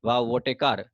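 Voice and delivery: Wow said with no stress, like reading a list; mechanical. Shown as a demonstration. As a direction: rattle off Wow, what a car without feeling. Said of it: "ऐसे ही mechanically बोलूंगा".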